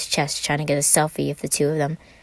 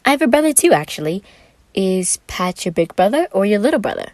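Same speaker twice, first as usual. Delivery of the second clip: put-on higher, bright eager young man; Roman's voice; 4 semitones higher, 5 dB louder than usual.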